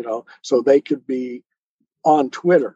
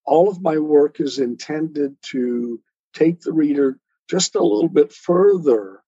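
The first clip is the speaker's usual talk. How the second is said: poetry reading. Acted. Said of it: "I've got a short little poem called Miracle".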